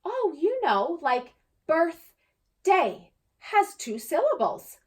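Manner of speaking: patiently teaching a classmate; girl explaining. Acted. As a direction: classmate explaining syllables, slow and high. Emma explaining.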